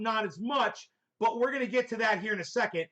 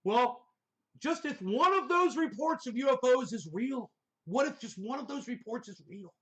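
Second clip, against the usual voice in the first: higher-pitched mocking imitation of pontificating; 5 semitones higher than usual. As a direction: parody his weighty hypothetical. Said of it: "like he's pontificating".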